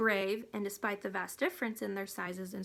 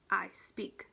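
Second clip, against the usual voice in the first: grunt; 3 semitones lower than usual. Acted. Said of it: "he grunted".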